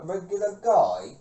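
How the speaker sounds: slow, puzzled rise on regular guy; incredulous echo. Retold or imitated. Echoing father's odd claim, slow and incredulous. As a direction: repeat it back, baffled and drawn out. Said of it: "I'm like".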